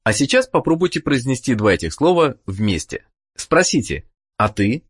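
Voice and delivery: usual speaking voice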